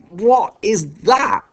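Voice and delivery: high, slow, loud revulsion; spat in disgust. A narrator's reading. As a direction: spit out each word, appalled. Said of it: "he spat".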